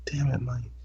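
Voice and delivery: imitating her hushed whisper. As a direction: breathe it as a secret. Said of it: "She's like".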